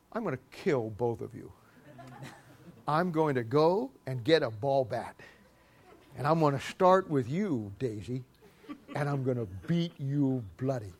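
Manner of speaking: soft, low mock threat to the dogs. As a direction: murmur the threat sweetly and quietly.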